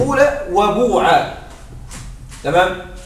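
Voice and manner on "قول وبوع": قول وبوع with full oo vowels; pure damma vowel. Shown as a demonstration. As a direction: slowly give قول وبوع a long u. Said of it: "يقولون".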